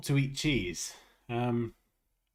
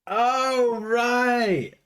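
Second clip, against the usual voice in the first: hammed-up British accent; 2 semitones higher than usual. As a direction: play a matey British water seller. British bottle-of-water seller act.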